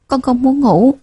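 put-on fussy child. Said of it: "Bảo Nam lại ồn ào".

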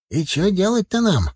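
high-pitched village grandad; puzzled old man. Acted. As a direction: ask helplessly as an old countryman, voice high. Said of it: "спросил дедок". (дедок спрашивает высоким голосом)

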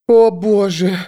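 high squeak of fright. Acted. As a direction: squeak it out in fear. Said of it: "пропищала она".

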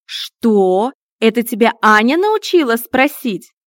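loud, offended outburst; indignant. Acted. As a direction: bristle at the cheeky cat, loud. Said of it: "возмутилась она". (возмущённо, громко)

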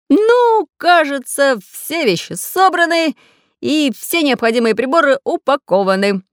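high, brisk-minded character voice; busy inventor figure. A narrator's reading.

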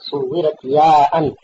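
ببطء مع مدّ الكلمات; لقّن الطالب العبارة ببطء شديد; تلقين متأنٍّ. Shown as a demonstration. المعلم يعيد العبارة مصححًا للطالب. (إلقاء تعليمي بطيء وممدود)

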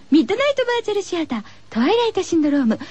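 title call. Acted. Radio host closing title call.

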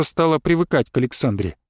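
ordinary delivery, nothing marked

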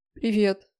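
understated tearful greeting; small, choked-up hello; through tears. A narrator's reading. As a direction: squeeze the word out past tears. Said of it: "выдавила я сквозь слёзы".

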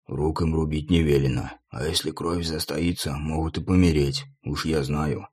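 low, soft leering whisper; whispering torturer. A narrator's reading. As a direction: whisper it with relish, creepily. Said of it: "наклонился к чиновнику и прошептал".

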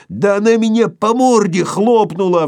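high, loud squeal; shrieking. A narrator's reading. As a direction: yelp it out indignantly. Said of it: "взвизгнул Шариков".

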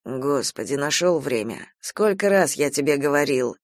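low, subdued exasperation; weary reproach. Acted. Uncle hearing of nephew's losses, wearily reproachful.

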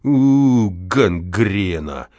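spits out a slow, hateful гангрена; a short venomous jab; hateful curse. Acted. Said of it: "с ненавистью сказал". (дворник с ненавистью бросает слесарю ругательство)

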